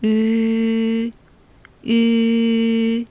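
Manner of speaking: 유 said with lips rounded as for 우 but tongue placed for 이; Chinese ü sound. Shown as a demonstration. Teacher modeling 유 for students, lips rounded. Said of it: "발음을 이로 하는 거예요".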